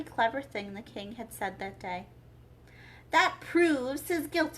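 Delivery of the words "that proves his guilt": high, slow queen verdict. A narrator's reading. Queen declaring the knave guilty, high and slow. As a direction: pronounce guilt.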